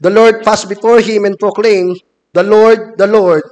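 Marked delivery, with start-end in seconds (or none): none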